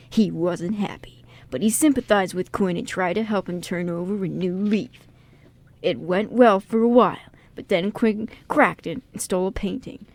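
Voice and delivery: measured dramatic synopsis read. Acted. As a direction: read it like a trailer, mildly dramatic. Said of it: "say it in a really dramatic voice".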